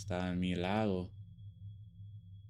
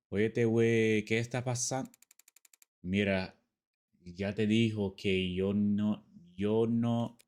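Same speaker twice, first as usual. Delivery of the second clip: put-on Mexican accent; 4 dB louder than usual. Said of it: "see me speak in a Mexican accent".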